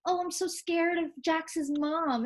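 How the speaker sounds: mock her fake fear, drawn out; mocking sarcasm. Mom imitating the girl's sarcastic jab, slow and sneering. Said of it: "she's like".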